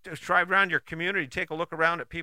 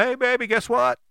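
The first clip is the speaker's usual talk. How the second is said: mock pep talk to spouse. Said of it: "Tell 'em".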